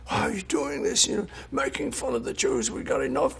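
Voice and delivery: high, accusing complaint; furious. Retold or imitated. Angry caller accusing him of mocking the Jews. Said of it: "he's furious".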